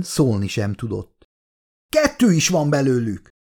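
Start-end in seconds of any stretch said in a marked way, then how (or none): 1.9-3.3 a touch of strained alarm; struggling to speak. A narrator's reading. Milburn spots a second creature, struggling to speak. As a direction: get the words out with difficulty. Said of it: "szólalt meg nagy nehezen Milburn".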